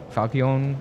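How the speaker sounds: Falchion as FAL-kee-OWN, long O at the end; trial pronunciation. Shown as a demonstration. Player giving up on the sword's name, tentative pronunciation.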